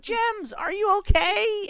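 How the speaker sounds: high, loud, drawn-out movie call; yelling. Acted. Movie hero calling past fallen rocks, dramatic yell. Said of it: "I'm, like, yelling".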